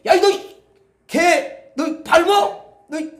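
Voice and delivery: soil yelling at the dog, loud and high, dragging out 너 밟어; hammed-up outrage, stretched slow on the last words; the soil scolds the dog for stepping on it; mock angry yelling. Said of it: "막 그러면서 막 소리 지르고".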